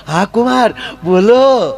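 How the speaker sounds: mother-in-law greeting son-in-law on phone, sweetly high; doting mother-in-law. Retold or imitated. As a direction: answer like a fussing mother-in-law.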